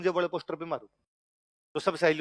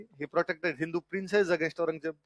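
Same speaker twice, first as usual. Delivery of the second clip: slow dictation; much slower than usual. Shown as a demonstration. Teacher dictating notes to class.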